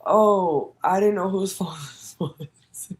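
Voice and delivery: high, slow, laughing mock innocence; feigned innocence. Claiming she didn't know the phone, mock innocent. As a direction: play it sweet and clueless. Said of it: "I was pretty much like".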